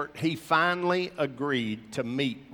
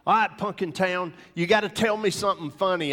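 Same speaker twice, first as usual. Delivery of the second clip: anxious pleading; 5 semitones higher, 3 dB louder than usual. Retold or imitated. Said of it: "he's an emotional basket case".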